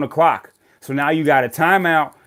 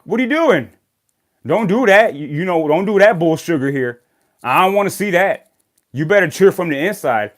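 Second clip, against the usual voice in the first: mock scolding; 3 semitones higher, 4 dB louder than usual. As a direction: scold mom for cheering the wrong team. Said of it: "I looked at her and I'm like".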